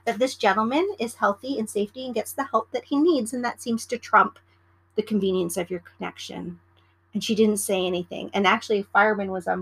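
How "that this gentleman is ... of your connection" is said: polite. Retold or imitated. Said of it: "I very politely said".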